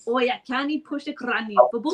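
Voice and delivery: copying a Scottish phrase; learner's go at Scottish; attempted Scottish accent. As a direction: imitate the Scottish speaker's saying. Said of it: "I need to copy what you say".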